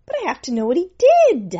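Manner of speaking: high, loud, fast pleading; urgent pleading. Acted. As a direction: rush it out, desperate. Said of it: "Jimmy pleads with Death".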